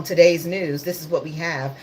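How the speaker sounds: deadpan imitation of a dull news anchor; monotone newsreader. Mocking the bland way mainstream news is read, monotone. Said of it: "in a monotone".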